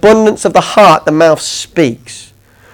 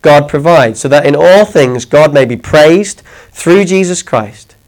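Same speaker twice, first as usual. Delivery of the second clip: scripture reading; 3 semitones lower than usual. Acted. Preacher reading scripture to the congregation, measured and reverent. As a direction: read the verse with reverence, unhurried.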